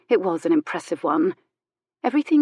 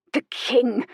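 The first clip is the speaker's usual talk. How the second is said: a mock scornful exclamation, higher; scornful snort; 6 semitones higher than usual. Old lady scoffs at the king, mock scorn. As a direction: scoff at the very name. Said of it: "she snorted".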